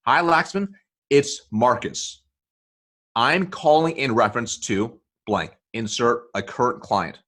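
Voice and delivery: direct voicemail script. Shown as a demonstration. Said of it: "the script sounds like this".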